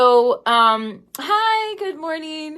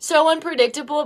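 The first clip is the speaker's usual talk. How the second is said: tearful; 4 semitones higher than usual. Real, not acted. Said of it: "I'm crying right now".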